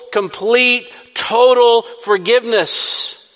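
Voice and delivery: high, swelling assurance, building to loud; encouraging preaching. Shown as a demonstration. Preacher comforting repeat sinners with forgiveness, building encouragement. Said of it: "some preaching's like that".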